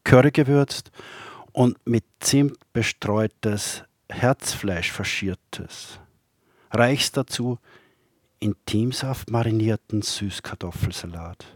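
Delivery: measured poem recital with long pauses; poetry reading. Acted. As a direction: recite poems line by line, letting each phrase stand. Reads own poems aloud.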